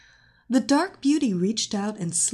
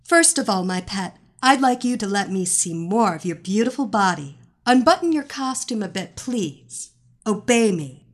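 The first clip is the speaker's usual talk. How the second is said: commanding; 5 dB louder than usual. Acted. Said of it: "She spoke commandingly to her hypnotic puppet".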